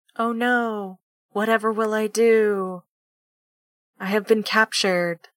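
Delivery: play-acted dry, unbothered deadpan, drawn-out do. Retelling a scene, the speaker gives a character's reply, retelling it deadpan. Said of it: "Just does that like in like the deadpan".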